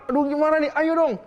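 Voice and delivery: high, urgent, pleading cry; desperate pleading. Retold or imitated. Elia begging God for the dead boy: high desperate plea. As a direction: beg with rising urgency, half-acted. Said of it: "Berusaha banget".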